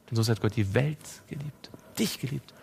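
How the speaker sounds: whispered intimately, no voice at all; hushed whisper to the listener. Acted. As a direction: breathe the verse like a secret. Same verse repeated, now whispered.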